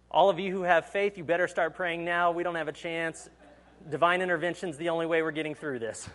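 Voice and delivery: a captain losing his nerve over the intercom; panicked captain. Pretend. Pilot panicking to passengers, high loud alarm. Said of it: "What if the captain comes overboard and says".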